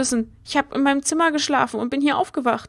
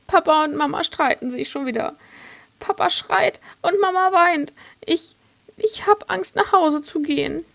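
put-on a touch of tearful, higher child voice; 5 semitones higher than usual. Child tells friend about her parents fighting, tearful. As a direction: near tears, scared of going home. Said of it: "Warum weinst du".

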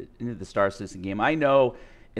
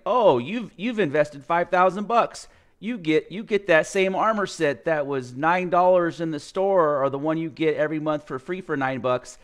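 mock sales pitch; 4 semitones higher than usual. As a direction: parody a smug salesman offering nothing. Mocking the company's concierge offer.

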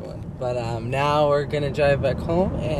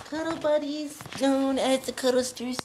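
sing-song; 13 semitones higher, 4 dB quieter than usual. Pretend. Sing-song cuddling with dog.

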